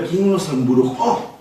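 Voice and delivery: slow, drawn-out reproachful question; lightly acted rebuke, words stretched out; mild scolding. Pablo calls the Galatians to account, mildly scolding. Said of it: "empieza a llamarles la atención".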